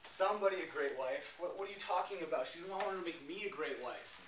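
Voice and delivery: rising frustrated outcry; indignant outburst. Acted. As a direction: push back at God in disbelief. Frantic protest while pacing.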